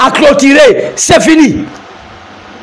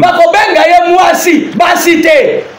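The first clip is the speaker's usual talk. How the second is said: emphatic preaching of the translated verse; slower than usual. Acted. Pastor translates the verse for viewers, preaching with emphasis. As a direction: press each word home to the congregation.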